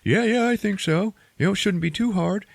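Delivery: high, breezy mock confidence; tossing it off like it's nothing; a hammed-up easygoing yes; eager hero. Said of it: "And he's like".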